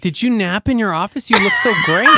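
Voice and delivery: loud mock cheer of the boss; loud hammed-up compliment; boss's loud praise. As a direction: boom it out like a jolly boss. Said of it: "He's like".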